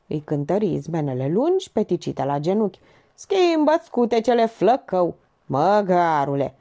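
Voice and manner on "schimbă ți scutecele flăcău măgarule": mocking put-down; taunting insult. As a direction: jeer at him, stretching the last word. Joker insults the man.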